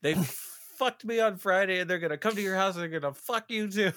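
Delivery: high mocking singsong; mocking imitation. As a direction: mimic the warning in a silly voice. Mocking friend's warning.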